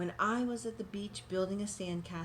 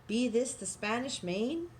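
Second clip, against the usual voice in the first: pirate yell; 3 semitones higher than usual. Acted. Head pirate hailing the boy from the boat. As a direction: call out like a pirate captain. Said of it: "climbed out of the boat and yelled".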